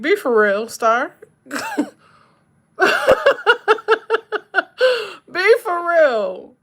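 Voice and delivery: high, loud, laughing be for real; laughing protest. Real, not acted. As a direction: tease the viewer back through laughter. Laughing at viewer's joke.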